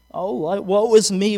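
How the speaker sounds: slow mock woe; lightly hammed-up self-pity; Eeyore. Preacher mimics people complaining to God, mild Eeyore gloom. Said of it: "We get the Eeyore effect".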